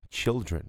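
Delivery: put-on children with stress on the first syllable; careful children. Shown as a demonstration. Teacher modeling the plural for students. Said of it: "Mas o plural".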